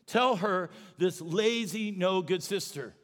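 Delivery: exasperated complaint to Jesus; Martha complaining. Retold or imitated. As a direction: whine it like an overworked sister. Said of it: "that's how she said it".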